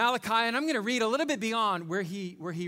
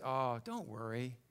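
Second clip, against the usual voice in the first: calm; 3 semitones lower, 5 dB quieter than usual. Acted. Calm rich castaway in the joke.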